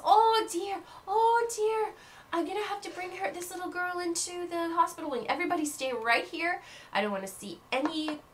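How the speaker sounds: high, fretful teacher voice, quick in places; a panicked teacher barking orders; flustered flying teacher. Acted. Madame Hooch orders the class after the fall, high and flustered. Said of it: "She says".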